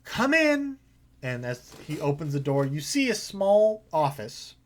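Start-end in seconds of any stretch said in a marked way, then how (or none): 0.0-0.8 disgruntled. Acted. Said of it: "a disgruntled".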